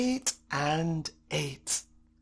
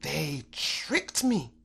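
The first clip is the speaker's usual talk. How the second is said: low, slow grumble; lightly voiced lion grumble; lion grumbling; 6 semitones lower, slower than usual. A narrator's reading. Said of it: "the lion grumbled".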